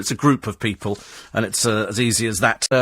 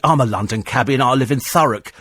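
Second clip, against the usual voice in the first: mock whinge of a cab driver; lightly acted moan; moaning London cabbie. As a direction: imitate a self-pitying cabbie, slightly raised. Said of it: "he spent nothing but moaning about it".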